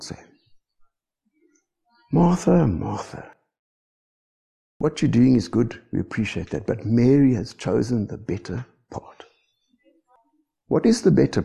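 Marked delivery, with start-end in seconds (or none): 2.1-9.2 soft, quiet, kindly correction; gentle reply. Acted. The Lord answering fretful Martha, soft and kind. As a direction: ease her down tenderly.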